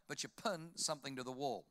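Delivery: "pin" said as "pun"; New Zealand vowel in "pin"; Kiwi vowels. Shown as a demonstration. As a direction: turn the i of "pin" into an uh, Kiwi style. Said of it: "they do their vowels in reverse".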